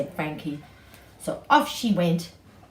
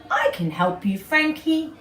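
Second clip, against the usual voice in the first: monkey voice; 8 semitones higher, 5 dB louder than usual. Acted. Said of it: "And Mister Monkey said".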